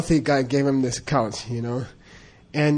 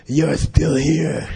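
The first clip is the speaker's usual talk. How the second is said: a hint of the stern teacher, slowed right down; Lama's voice; much slower than usual. Imitating the Lama catching him behind the chair, slow. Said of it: "His voice was like that".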